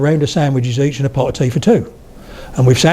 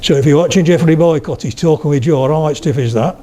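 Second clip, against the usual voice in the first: Yorkshire accent. Shown as a demonstration. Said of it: "they keep their jaw very, very stiff".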